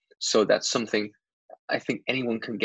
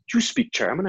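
higher, incredulous question; surprised reaction; 8 semitones higher than usual. Retold or imitated. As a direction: imitate someone caught off guard. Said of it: "his reaction was".

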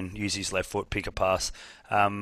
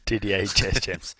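French pronunciation; slower than usual. Pretend. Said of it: "sounds better when you put the accent".

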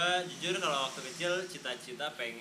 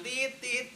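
slow, spoken "tit-tit" beep; censor beep imitation; 6 semitones higher than usual. Shown as a demonstration. Showing friends how the swear word gets censored, slow beep imitation. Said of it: "sensor itu menyensor dengan cara".

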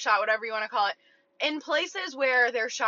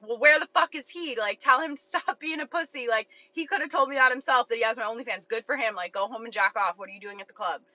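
defensive. Retold or imitated. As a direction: snap back defensively. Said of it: "I get instantly defensive".

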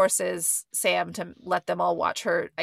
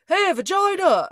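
high, loud hammed-up holler; mock call-out; 12 semitones higher, 6 dB louder than usual. Imitating Mark greeting his friend on walking in, shouted. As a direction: holler it like a rowdy buddy.

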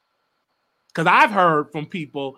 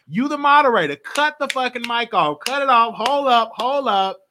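heated mock order; 6 semitones higher, 4 dB louder than usual. Telling moderator to cut mic.

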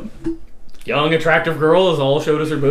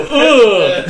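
loud, higher disgusted "ugh"; group groan of disgust; 5 semitones higher, 6 dB louder than usual. Retold or imitated. Storyteller imitates the whole trailer's reaction, loud groan of disgust. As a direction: groan like a repulsed crowd.

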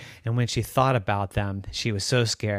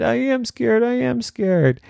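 insistent fear; 12 semitones higher than usual. Acted. Daphne insists she is scared.

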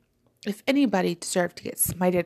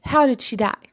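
higher, louder eager question; excited question; 5 semitones higher, 6 dB louder than usual. A narrator's reading. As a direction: ask it bursting with excitement. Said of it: "flapping her unused hand from excitement".

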